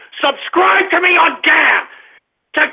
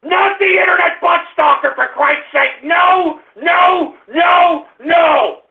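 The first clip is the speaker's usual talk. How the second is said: angry yelling. Acted. Ranting radio host yelling at caller.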